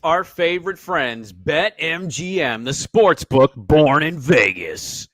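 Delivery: booming, slow monster truck announcer. Pretend. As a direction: stretch it out like an arena hype ad. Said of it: "Always like to say that like a monster truck commercial".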